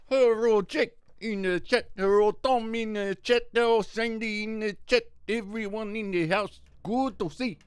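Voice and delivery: high, loud sing-song shout-out to chat; hyped chat greeting. Real, not acted. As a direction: greet the chat like a hype host.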